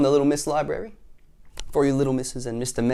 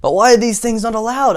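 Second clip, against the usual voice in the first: puzzled Little Miss Sunshine; 10 semitones higher, 8 dB louder than usual. Acted. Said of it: "asked Little Miss Sunshine".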